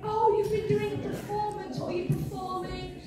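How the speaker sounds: put-on high-pitched curious old lady. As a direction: imitate an old lady's delighted questions. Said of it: "this old lady went".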